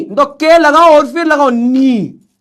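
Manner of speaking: "नी" slow, silent k. Shown as a demonstration. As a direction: say "नी" slowly, no k sound. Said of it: "के silent है". ("नी" धीमे, बिना के)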